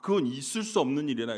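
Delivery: normal talking voice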